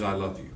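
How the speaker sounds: I said with the weight on I; quiet, I stressed. Shown as a demonstration. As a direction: lean on "I" in "I love you". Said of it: "The simple phrase".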